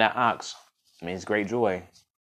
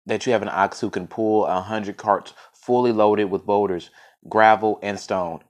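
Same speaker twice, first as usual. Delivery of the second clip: measured folk-tale reading; story narration. A narrator's reading. Storyteller reading of the poor farmer and his ox, story narration. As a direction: read it out as a tale, with weight on key words.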